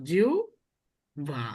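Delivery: জিহ্বা stretched very slowly as "jiuba"; slow drawn-out demo. Shown as a demonstration. Teacher to students modelling জিহ্বা very slowly as "jiuba". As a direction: draw out জিহ্বা as "jiuba", syllable by syllable. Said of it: "এটা উচ্চারণ কি?".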